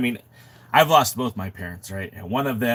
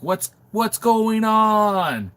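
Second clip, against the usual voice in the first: disbelieving; 11 semitones higher, 5 dB louder, much slower than usual. Retold or imitated. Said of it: "We're like".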